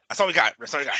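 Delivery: lightly voiced football coach; mock coach call, starting loud; college football coach. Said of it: "like the fucking college football coaches".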